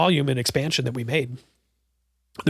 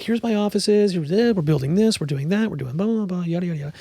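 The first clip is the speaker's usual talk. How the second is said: higher, lightly voiced landlady; a hint of a breezy tour guide; Judy showing off; 5 semitones higher than usual. Landlady showing her offices, lightly voiced. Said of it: "she's like".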